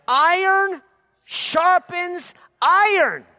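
high, loud and slow proclamation; preaching shout. Acted. Pastor proclaiming iron sharpens iron, slow loud preaching. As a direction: stretch it out like a pulpit climax.

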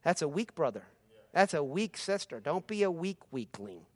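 ordinary talk, nothing marked

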